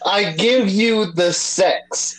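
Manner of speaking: drawn-out teasing repeat; slow mock quote. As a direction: stretch it out, mocking.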